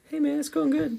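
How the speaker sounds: high, put-on radio DJ voice; lightly voiced radio host; smooth radio voice. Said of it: "The smooth radio voice to my right".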